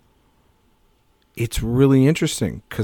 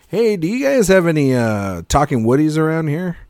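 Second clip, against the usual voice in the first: lightly voiced dad, higher on the opening; dad asking store staff; 4 semitones higher than usual. Dad asking at every store, lightly acted higher voice. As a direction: imitate a parent's sheepish shop query. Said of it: "one of the most humiliating things".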